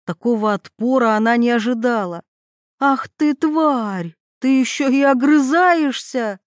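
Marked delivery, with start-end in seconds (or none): 2.8-4.2 mock shriek, a little higher, squealing the insult out; a lightly voiced rival who shrieks with rage. Veronika snaps at Mila who talks back, with a mild mock shriek. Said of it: "взвизгнула она". 4.4-6.4 mock shriek, a little higher, squealing the insult out; a lightly voiced rival who shrieks with rage. Veronika snaps at Mila who talks back, with a mild mock shriek. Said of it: "взвизгнула она".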